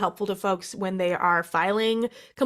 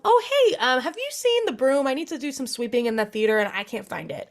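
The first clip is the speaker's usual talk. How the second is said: casual breezy excuse; 3 semitones higher than usual. Pretend. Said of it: "you can ask them".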